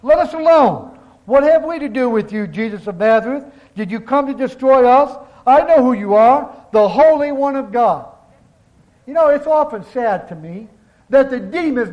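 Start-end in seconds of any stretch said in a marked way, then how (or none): 0.0-8.1 mild demon cry. Acted. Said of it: "and he cried out".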